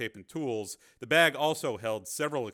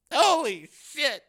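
slow, high, loud astonishment; shocked; 10 dB louder, much slower than usual. A narrator's reading. Cameraman learns they are meeting Steele, shocked. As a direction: let it out stunned, drawn out.

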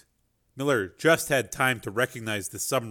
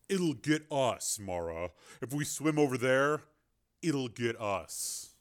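hushed warning; 8 dB quieter than usual. Acted. Miller's urgent warning.

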